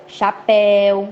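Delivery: "chapéu" drawn out on open éu; slow demonstrated "chapéu"; open diphthong. Shown as a demonstration. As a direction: stretch the end of "chapéu", é wide open. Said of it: "ditongo aberto também eu".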